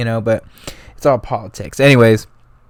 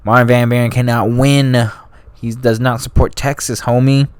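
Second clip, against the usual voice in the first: slangy Jackson voice. Retold or imitated. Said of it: "I don't know why I'm talking like that".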